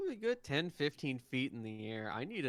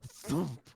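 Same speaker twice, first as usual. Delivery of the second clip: sudden punchy vocal thump; imitated thump; 3 semitones higher than usual. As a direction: make a quick impact noise.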